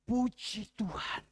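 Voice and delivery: Puji Tuhan called out loud and slow; loud praise. Acted. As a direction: proclaim Puji Tuhan, drawn out and full. Pastor repeats thanks aloud. (Puji Tuhan diserukan keras dan pelan)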